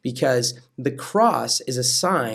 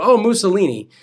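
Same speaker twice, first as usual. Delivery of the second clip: mock cry; 7 semitones higher, 7 dB louder, faster than usual. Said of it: "You don't go".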